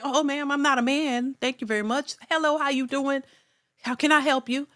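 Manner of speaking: prim, proper customer-service voice; gently insisting she be called ma'am; polite reply. Pretend. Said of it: "I'm like".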